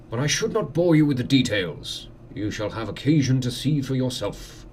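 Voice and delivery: lightly voiced courteous lord; manor host. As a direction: welcome a guest with formal hospitality.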